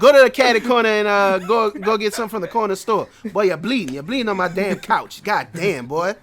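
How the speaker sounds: loud, high scolding mother; furious mom shouting at her bleeding son; mom yelling. Retold or imitated. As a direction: yell at the boy bleeding on the couch like an angry mom.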